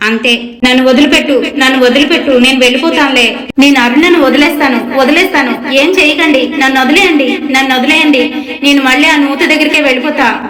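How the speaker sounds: desperate ghost begging to be let go; spirit begging release. Acted. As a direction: plead as the trapped spirit, urgently. Spirit begs exorcist to release.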